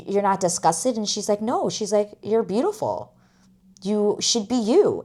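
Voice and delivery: soft, gently acted reassurance; tender acceptance. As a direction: voice a hushed, caring exchange. Retells tender coming-out acceptance.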